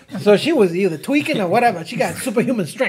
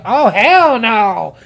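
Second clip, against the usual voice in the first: slow, drawn-out, louder "Oh, hell no."; mock indignant refusal; 5 dB louder, much slower than usual. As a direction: stretch it out with mock outrage. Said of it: "She go".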